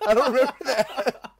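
talking through real laughter; laughing. Real, not acted. Speaker recalling his blackout, laughing. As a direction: laugh while saying it.

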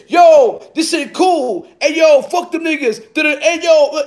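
high-pitched gushing imitation; mock fan comments. Troll page praising its own video, mock enthusiastic. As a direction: mimic a fake fan hyping the video.

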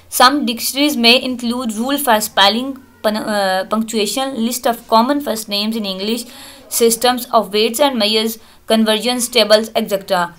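reading English text aloud, word by word; slow textbook reading. Acted. Teacher reading the book slowly to students. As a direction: dictate slowly to the class.

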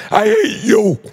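teasing shout; mock hate. Real, not acted. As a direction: yell it at a buddy in jest. Jokey jab at a guest.

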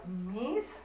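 AMISTAD with long pauses between a, mis, tad; soft, widely spaced syllables of AMISTAD; syllables while writing. Shown as a demonstration. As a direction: say AMISTAD in separate syllables, softly. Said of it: "empiezo a escribirla aquí".

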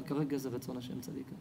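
low, soft rabbinic reassurance; gentle assurance. Retold or imitated. Rabbi answers the mother about God's will, gentle assurance.

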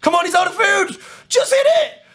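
very high, loud, strained shouting; frantic yelling. Real, not acted. Gamer begging for the finishing hit, frantic yelling. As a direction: scream the kill on, burst by burst. Urging on the kill at its climax.

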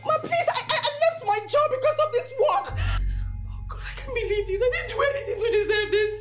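desperate, sobbing protest of innocence; fired nanny begging her madam, tearful; tearful pleading. Acted. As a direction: beg through tears. Nanny pleads after being fired.

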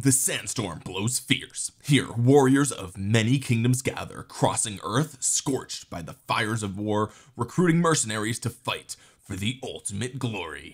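dramatic trailer announcer; slow epic narration read. Shown as a demonstration. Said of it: "let me put on my announcer voice".

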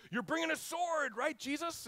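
high, loud eager question; eager crowd. Retold or imitated. Crowd pressing Jesus for a sword, high and eager. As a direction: push Jesus hopefully, voice way up. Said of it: "They're like".

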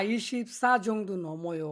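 ইশিবসা জংদু নময় read slowly and carefully; slow demo sentence. Shown as a demonstration. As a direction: model the Korean sentence slowly for learners. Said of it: "slow Korean demo sentence". (ধীরে ধীরে Korean বাক্য পড়া)

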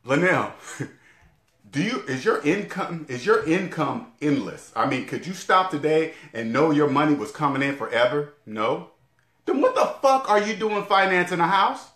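questions that build up to a cursing punchline; blunt scolding. Retold or imitated. Imagined advisor grilling him about his house, then scolding. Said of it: "Another one".

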